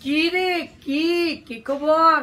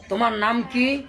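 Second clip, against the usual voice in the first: casual tu-form, blunt rising "তোমার নাম কি?"; offhand, careless asking of a name; rude familiar question; 2 semitones lower than usual. Shown as a demonstration. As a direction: ask "তোমার নাম কি" as if to a kid. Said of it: "বলা যাবে?".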